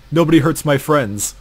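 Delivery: loud protective battle cry; fierce yell. Retold or imitated. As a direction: shout it to defend your friends. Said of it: "lets out a gasp and says".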